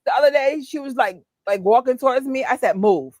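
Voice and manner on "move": curt, mean retold order; real mean. Telling a wrong-side walker to move, mean. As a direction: snap it like a New Yorker who won't yield. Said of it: "And I said it real mean".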